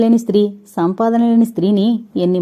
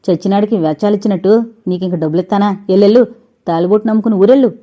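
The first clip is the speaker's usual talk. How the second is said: angry dismissal; faster than usual. Acted. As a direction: throw her out in a rush of scorn. Uncle drives niece away. (Jagannatham శారదను గట్టిగా వేగంగా తరిమేస్తూ)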